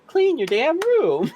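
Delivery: high, slow, loud scolding yell. Acted. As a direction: belt it out like a scolding. Scolding the audience jokingly.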